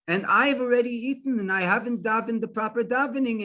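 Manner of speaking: high-pitched, agitated protest; upset. Retold or imitated. Upset farmer protests to the rabbi about the fast, agitated. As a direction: plead in acted dismay, without real tears. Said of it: "and he's crying".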